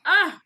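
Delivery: high, loud frustrated grunt; mock exasperated cry; grunt of frustration. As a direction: let out an acted grunt of frustration. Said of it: "she lets out her grunt of frustration".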